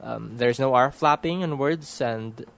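educated Manila Filipino accent in English; typical Filipino accent. Shown as a demonstration. Speaker demonstrating local speech to listeners, typical Filipino accent. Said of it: "putting on a more typical Filipino accent now".

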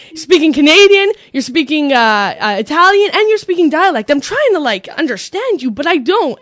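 high, loud mock exasperation; baffled Italian stranger. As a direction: protest like a totally confused bystander. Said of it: "a guy turns around".

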